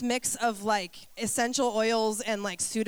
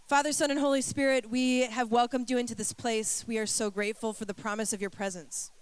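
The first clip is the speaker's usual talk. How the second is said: prayer. Acted. Leads congregation in prayer.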